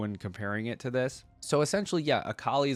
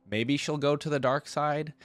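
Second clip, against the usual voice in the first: higher, louder mock-dramatic movie voice; ominous Star Wars line; 6 semitones higher, 4 dB louder than usual. Joking to viewers about Star Wars, a mock-dramatic voice. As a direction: ham up a dark-side warning. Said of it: "I'm going Star Wars here".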